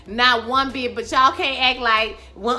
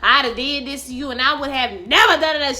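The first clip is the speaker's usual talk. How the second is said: mock screaming; 3 semitones higher, 4 dB louder than usual. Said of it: "She hit her with that taser like".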